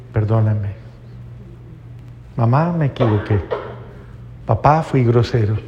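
low, measured mock apology; disculpa del hijo. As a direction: apologise humbly to mother and father, with pauses. Hijo pide perdón a padres. (disculpa humilde, grave y pausada)

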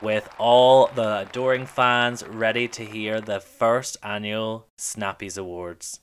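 breathless awards host hype; gushing red carpet chatter. Pretend.

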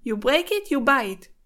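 English with a thick Israeli accent. Real, not acted. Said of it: "יצא לי במבטא ישראלי כזה".

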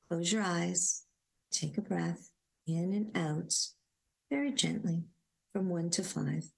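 gentle guided meditation voice; guided grounding. Acted. Inviting listeners to sit back and ground, gentle meditation voice. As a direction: invite them to settle and ground.

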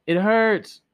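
high, loud pained cry. Acted. Girl crying out as Totokuru throttles her, high pained wail. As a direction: wail it through the hurt. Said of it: "she only wept and cried".

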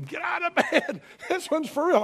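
high, loud mock shriek; imitated panicked yelling. Preacher imitating wife and kids during a quake, high-pitched yelling. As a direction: yell it like family raising the alarm. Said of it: "my wife and kids were yelling".

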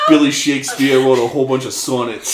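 Billy Shakespeare wrote with Boston sonnets as sawnits; laughing Boston accent imitation. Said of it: "in his Boston accent rhymes with hornet".

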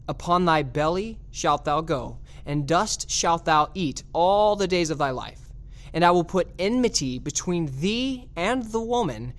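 measured Bible reading with weighted phrases; solemn scripture reading. Acted. Preacher reads the curse on the serpent, solemn reading. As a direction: read it out as scripture, slowing on the key clauses. Reads Genesis verses aloud to congregation.

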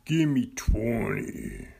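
slow, drawn-out drill sergeant order. Acted. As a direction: bark it slowly like a drill instructor. Podcast intro drill command.

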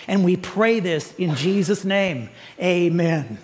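earnest pastoral prayer. Acted. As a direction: pray it humbly and steadily.

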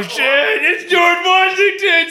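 high drawn-out shout. Acted. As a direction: yell it out, freaked. Freaking out at George Washington.

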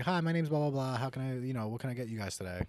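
lightly voiced waitress greeting; pretend waitress. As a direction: start high and bright, easing into routine service patter. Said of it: "pretend I'm a waitress".

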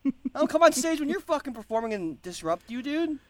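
loud, high-pitched indignant outburst; exasperated performer losing it; mock outrage. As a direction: tell off a heckler, voice way up. Indignant at heckling of his acting.

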